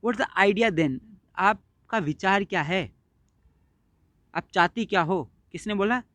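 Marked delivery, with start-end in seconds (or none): 0.1-1.0 mild aggressive. Acted. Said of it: "aggressively गुस्से से बोलता है".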